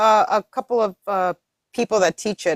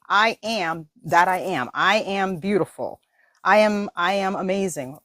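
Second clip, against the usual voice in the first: slow affirmation; 4 semitones lower, slower than usual. Shown as a demonstration. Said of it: "The moment you say".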